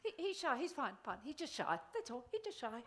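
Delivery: a hint of a parent covering for a shy child; mock parent excusing. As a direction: lightly voice the fussing parent. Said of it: "your parent covering for you said".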